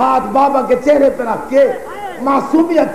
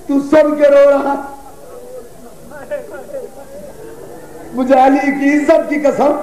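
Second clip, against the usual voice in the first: mournful, chanting sermon cadence, lines falling at the ends; lamenting majlis recitation. Acted. Preacher recounting Karbala to mourners, lamenting recitation. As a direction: mourn the tale aloud to the gathering.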